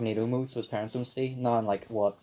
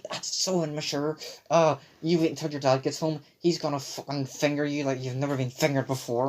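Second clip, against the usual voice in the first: scolding mum; 3 semitones higher than usual. Retold or imitated. Mum ranting, retold.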